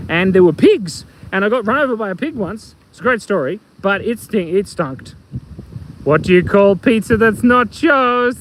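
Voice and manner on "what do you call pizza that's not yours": slow, drawn-out riddle, higher at the end; stretched-out joke question; joke setup. Acted. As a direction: pose the riddle slowly, stretching the last word. Joke setup, asked first time.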